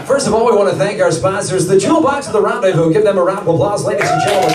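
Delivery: smooth announcer patter, a bit strip club DJ; game show voice. Pretend. Host thanking the show's sponsors, game show voice. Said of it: "My game show voice sounds a little bit like".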